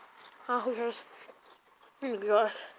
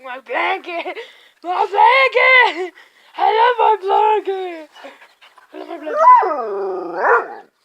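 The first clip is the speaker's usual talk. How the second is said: voicing the dog; 3 dB louder, slower than usual. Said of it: "He's like".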